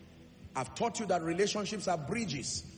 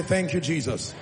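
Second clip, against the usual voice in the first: a louder second call of Thank you, Jesus; louder again; 2 semitones lower, 5 dB louder than usual. Shown as a demonstration. Preacher leads the crowd in thanks, louder. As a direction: lift Thank you, Jesus up with more volume. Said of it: "Say it again".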